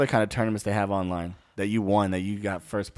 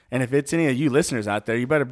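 mock threat; faster than usual. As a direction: rattle off a tough-guy warning. Threatening trolls, fast.

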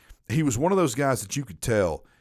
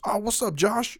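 higher, cheery wrong-name greeting; dopey coworker voice; 10 semitones higher than usual. Retold or imitated. Imitating the coworker greeting Adam by the wrong name. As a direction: sing out the wrong name brightly. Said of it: "voice for Robert sounded s".

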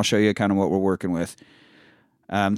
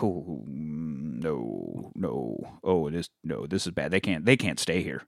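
alarmed doctor; 6 semitones lower, 7 dB quieter than usual. Retold or imitated. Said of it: "And he's like".

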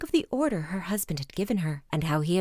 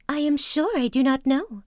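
higher, louder, mildly panicked denial; frightened wife; 6 semitones higher, 4 dB louder than usual. A narrator's reading. Terrified wife denying guilt to her husband, higher and louder. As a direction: deny it in a rising fright. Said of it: "replied the poor lady".

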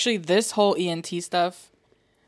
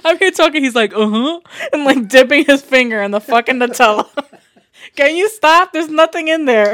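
high, loud, laughing and teasing; giggling while scolding a friend; 6 semitones higher, 10 dB louder than usual. Real, not acted. Teasing Jose mid-laugh.

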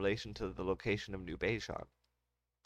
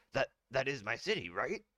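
flustered counselor; 4 semitones higher than usual. Acted.

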